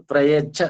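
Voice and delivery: പ്രയച്ഛ with no break inside; one word. Shown as a demonstration. Teacher insisting it is single, പ്രയച്ഛ as one word. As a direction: say പ്രയച്ഛ in one go, doubled "chcha". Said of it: "ഒറ്റ വാക്ക്".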